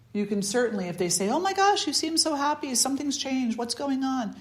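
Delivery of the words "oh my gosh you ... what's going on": high, bright-eyed gush of surprise; excited amazement. Retold or imitated. Friend marvels at your new happiness, high excited gush. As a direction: gush at how happy they seem.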